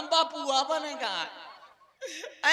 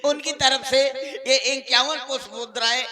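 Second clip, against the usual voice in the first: loud, lower-pitched donor announcement; stage announcer; 3 semitones lower, 7 dB louder than usual. Real, not acted. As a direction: announce the honoured donor to the crowd. Breaks off to announce a donor's gift. (मंच से ज़ोरदार घोषणा)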